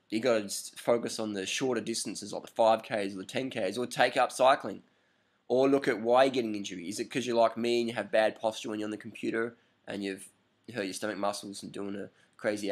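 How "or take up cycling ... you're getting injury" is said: ordinary talk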